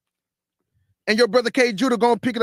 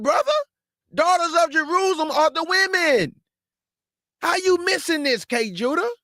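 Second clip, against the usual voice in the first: higher-pitched needling voice of a critic; mock objector; 5 semitones higher than usual. Preacher imitating a critic who scolds him, higher and mocking. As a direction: play the heckler scolding the preacher.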